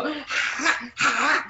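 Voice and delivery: short soft growled "ha"s; playful growl. Retold or imitated. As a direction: imitate growling at someone in little bursts. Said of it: "I start growling at her".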